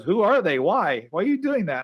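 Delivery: a hint of the wife's suspicion; suspicious wife. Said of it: "She goes".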